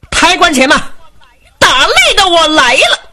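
high, ringing stage challenge; calling out challenge. Acted. Jin Jia climbing onto the stage to fight, calling out. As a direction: announce yourself across the arena in a high voice. 金甲登台叫阵.

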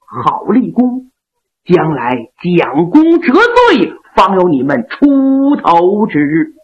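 noble general gently scolding his loyal men; Yang Liulang. Acted. Yang Liulang voiced by storyteller.

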